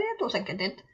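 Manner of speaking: ordinary talk, nothing marked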